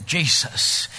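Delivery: half-hushed but firmer. Retold or imitated. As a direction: say it with slightly growing confidence. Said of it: "she gets a little more confident".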